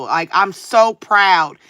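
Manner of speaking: slow, drawn-out so, dripping with sarcasm; slow mock-proud line; sarcastic proud. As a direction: stretch the so, mock pride. Sarcastic thanks to harasser.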